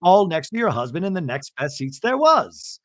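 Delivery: high, emphatic self-justifying impression; hammed-up, high-pitched protest; Bronwyn. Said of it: "And Bronwyn goes".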